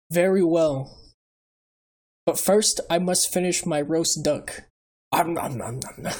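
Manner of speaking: lightly voiced wise old uncle; a hint of calm old sage; Iroh impression. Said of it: "Is that Iroh?".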